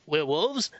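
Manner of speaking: put-on "Werewolves?" in a Kiwi accent, asked like "where wolves?" with a rise. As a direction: do the Kiwi "Werewolves?" as a puzzled question. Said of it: "since they have the Kiwi accent".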